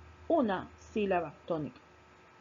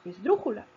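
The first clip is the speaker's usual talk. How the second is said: "esdrújula" with the beat on DRÚ, third syllable from the end; "esdrújula", voice peaking on DRÚ then falling away; stress on DRÚ. Shown as a demonstration. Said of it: "tiene el golpe de voz en la tercera sílaba".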